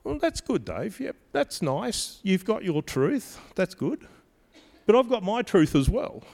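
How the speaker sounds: a hint of a patronizing listener; dismissive skeptic. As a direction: brush it off politely. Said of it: "people here that are probably saying".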